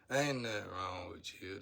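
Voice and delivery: mocking the spirits. Retelling spirits who picked on him, mocking tone. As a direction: parrot their dismissive line in a teasing voice. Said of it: "That's how they were talking".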